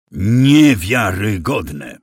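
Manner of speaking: loud, slowly drawn-out indignant exclamation; slow, emphatic indignation; indignant outburst. A narrator's reading. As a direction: stretch it out loudly in outrage. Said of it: "wypowiedziano z takim oburzeniem".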